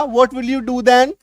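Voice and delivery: very slow question, rising at then; slow read of the alternative; slow alternate sentence. Shown as a demonstration. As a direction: say the other word order slowly. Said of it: "या".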